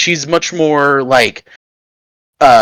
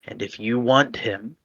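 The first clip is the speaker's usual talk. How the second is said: lightly voiced tempter; 4 dB quieter than usual. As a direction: offer the deal with calm menace. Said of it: "you're gonna hear a voice again".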